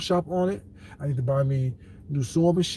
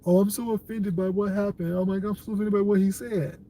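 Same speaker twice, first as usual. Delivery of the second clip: mock offended; 4 semitones higher than usual. Mocking offended people.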